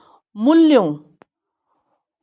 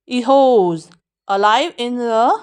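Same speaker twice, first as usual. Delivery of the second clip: very slow, words drawn out; slow model reading; much slower than usual. Shown as a demonstration. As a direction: spell it out slowly for learners. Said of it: "इस खई को aspirate करेंगे".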